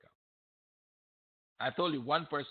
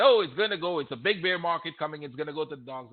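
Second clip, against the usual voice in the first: mock panic; 3 semitones higher, 8 dB louder than usual. Traders mimicked freaking out over a bear market, mock panic. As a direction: play up their panic, then let it drop. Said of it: "they were the one freaking out".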